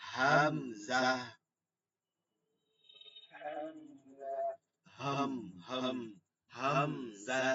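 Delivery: হামজা said low, from deep in the throat; teacher models a low, throaty হামজা; deep hamza. Shown as a demonstration. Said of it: "গম্ভীর আওয়াজে".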